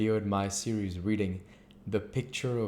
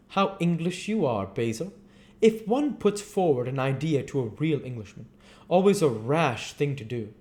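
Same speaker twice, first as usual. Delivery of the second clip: Lord Henry the dandy; 8 semitones higher, 4 dB louder, faster than usual. Acted.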